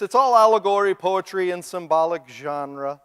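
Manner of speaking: a hint of a lofty, dismissive know-it-all; mock intellectual. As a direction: lightly send up a condescending scholar. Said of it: "They'll say this".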